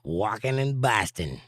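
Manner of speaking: slow, lightly faked Boston accent; attempted Boston accent. Shown as a demonstration. Southerner testing an accent for viewers, slow Boston accent. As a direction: draw it out in a rough Boston accent. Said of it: "That's a hard accent to pull off".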